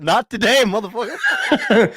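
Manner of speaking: high, loud hammed-up outburst; mock defiant shout. Host acts out snubbing someone from the bus, mock defiant shout. Acting out his bus role reversal.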